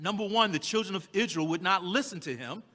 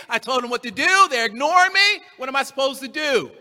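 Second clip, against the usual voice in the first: Moses venting, rising to a cry; exasperated Moses; 3 dB louder than usual. Acted. Moses complains.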